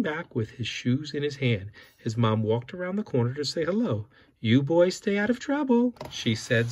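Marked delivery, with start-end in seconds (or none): 4.4-5.9 smiling mom voice. Acted.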